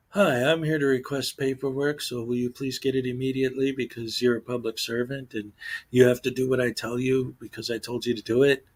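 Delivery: sugar-coat a demand with false politeness; mock calm voice. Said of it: "they're just saying it in a calm voice".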